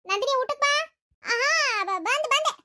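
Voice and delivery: loud, high call and reply. Acted. Mother calls daughter to eat, loud and high. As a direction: call across the house. Calling and answering across house.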